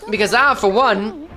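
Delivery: lightly voiced rambling old man; grandpa voice. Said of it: "Please do more grandpa voice".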